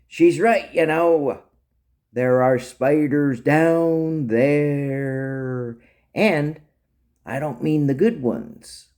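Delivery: a touch of spooky storytelling; drawn-out, teasing caution; lightly acted ominous warning. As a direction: draw out the warning slowly. Captive islander butts in ominously.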